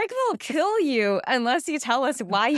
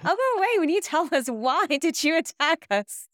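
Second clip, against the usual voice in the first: threatening; 6 semitones higher than usual. Acted. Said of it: "I said that very threateningly".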